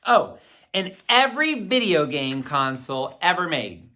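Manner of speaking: put-on lively read-aloud to children; story narration. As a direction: tell the chapter like a storyteller for kids. Reads the chapter aloud.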